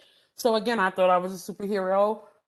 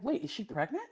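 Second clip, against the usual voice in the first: muttered aside; 2 semitones higher, 7 dB quieter than usual. Retold or imitated. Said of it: "I forgot I was on the mic".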